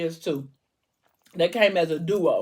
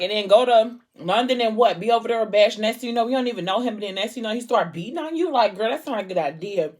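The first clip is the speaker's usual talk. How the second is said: heated friend; 4 semitones higher, faster than usual. Retold or imitated. Friend objects loudly to the trip.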